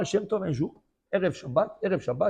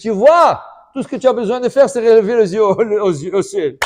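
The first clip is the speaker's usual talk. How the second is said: loud, higher told-you-so; triumphant gloating; 5 semitones higher, 11 dB louder than usual. Acted. Friend gloating over the caught apple, loud and triumphant. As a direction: crow it at your friend.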